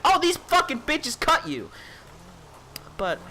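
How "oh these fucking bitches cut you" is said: mock yell. Imagined yell to the teacher.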